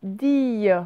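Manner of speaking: "Dille" said deey with a y glide; "Dille" like the end of cédille; syllable reading. Shown as a demonstration. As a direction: read "Dille" alone, drawn out. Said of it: "la fin de cédille".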